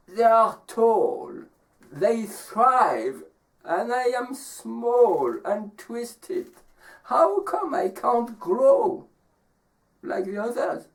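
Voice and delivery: high, slow little tree; complaining small tree. Acted. Small twisted tree comparing itself to others, high slow lament. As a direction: draw out the tree's complaint, pitch climbing. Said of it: "And the tree says".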